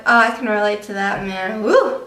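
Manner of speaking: "Woo!" flung up in a mock cheer; a hammed-up whoop of joy. Vlogger mocking her own excitement, whooping. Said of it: "And I'm like".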